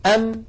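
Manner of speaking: "أم" ending with the lips pressed shut; closed-lips mim. Shown as a demonstration. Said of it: "تصطدمان هكذا".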